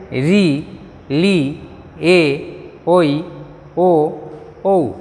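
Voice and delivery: slow teacher's recital, each vowel set apart; Bengali vowel recital. Shown as a demonstration. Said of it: "फिर से सुनिए".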